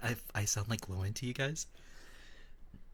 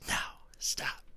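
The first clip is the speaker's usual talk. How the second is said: trainer's stop. Retold or imitated. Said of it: "He's like".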